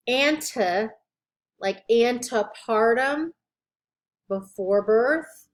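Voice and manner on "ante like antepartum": "Anta" and "antepartum" with an an-tuh opening, spaced out; distinct ante. Shown as a demonstration. Teacher contrasting look-alike prefixes, careful ante. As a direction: say "antepartum" slowly, second syllable a short tuh. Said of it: "they need to be pronounced differently".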